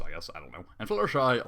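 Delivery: normal talking voice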